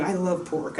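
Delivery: quiet, honest admission; sincere confession. Real, not acted. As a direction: confess it softly to viewers. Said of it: "being totally honest".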